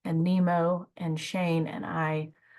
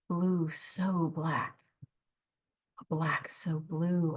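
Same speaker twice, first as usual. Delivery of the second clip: poem reading. Acted. Host closing the night with a gentle poem reading. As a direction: savor each image, let lines breathe.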